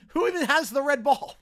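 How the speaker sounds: repeated through a loud laugh; cracking up as you ask it again. Real, not acted. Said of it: "Who even has the red ball at this point?".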